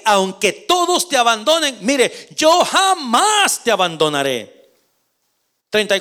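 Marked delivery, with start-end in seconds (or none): 0.0-4.7 bold vow. Acted. Peter vowing to Jesus he will never leave, shouting. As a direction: declare it like an oath, shouting. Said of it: "Pedro declaró".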